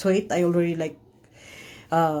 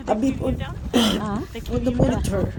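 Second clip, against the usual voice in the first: voice breaking; 7 semitones higher, 5 dB louder, faster than usual. Real, not acted. Mother recalls baby's monitor alarms.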